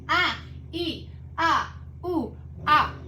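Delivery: short "ah, ee, ooh" yelps; pained stretch noises. Shown as a demonstration. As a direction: voice each twinge of the stretch. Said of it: "Yeah, that's how it feels".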